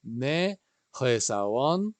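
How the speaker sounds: ne, joe sa won said very slowly; slow, careful teacher demo; slow model phrase. Shown as a demonstration. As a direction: model the answer for the class to repeat. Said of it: "Repetimos aquí".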